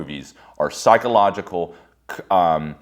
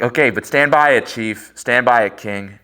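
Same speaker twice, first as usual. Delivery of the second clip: loud, high pep talk to himself; loud, high self-encouragement; 3 semitones higher, 5 dB louder than usual. Retold or imitated. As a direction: hype yourself up like a coach. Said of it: "I'm like".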